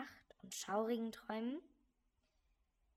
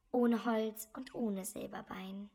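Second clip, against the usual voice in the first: dramatic emphasis; 8 dB louder than usual. Acted. Dramatic loud line.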